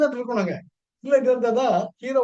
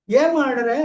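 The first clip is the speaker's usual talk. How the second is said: put-on louder concerned call to the girl; 3 semitones higher, 6 dB louder, slower than usual. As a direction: call across to her, raised. Uddhava calls to crying girl. (அழும் பெண்ணை உரக்க அழைத்தல்)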